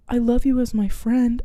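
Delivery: lightly acted, slightly careful admission; retold confession, pitched a little up; boyfriend's confession. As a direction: imitate a boyfriend gently letting someone down. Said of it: "he's just like".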